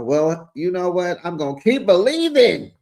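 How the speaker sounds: a bold loud vow; declared out loud. Shown as a demonstration. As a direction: announce it proudly to the room. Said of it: "repeats it softly after".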